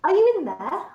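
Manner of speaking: tentative call. Acted. Vistra knocking on Calithia's door, tentative. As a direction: ask gently through the door. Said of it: "and say".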